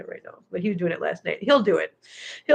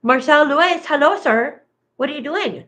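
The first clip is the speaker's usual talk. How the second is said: high, louder greeting to a pet; pet talk; 7 semitones higher, 4 dB louder than usual. Real, not acted. Owner hailing Marcel Lewis, high pet-talk voice. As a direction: coo a lifted hello at the animal.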